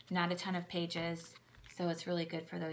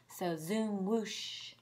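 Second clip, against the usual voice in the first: sound words; much slower than usual. Shown as a demonstration. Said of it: "emphasis on sounds on these books".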